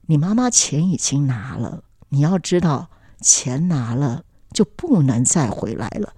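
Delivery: a hint of a tender father letting her down; gentle father. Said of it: "我爸爸忽然很温柔看着我说".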